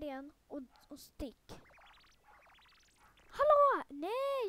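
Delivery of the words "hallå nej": loud high yell of protest; indignant shout. Real, not acted. Gamer yelling at a player who grabbed the teleport, loud high protest. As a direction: yell it like someone just stole your spot.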